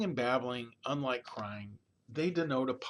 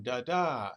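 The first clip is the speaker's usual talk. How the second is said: "da da" louder, copying the tune of hello; baby's mimicked tone; 5 dB louder than usual. Shown as a demonstration. Lecturer shows a baby mimicking the parent's tone, babbled singsong. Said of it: "hear that change in tone".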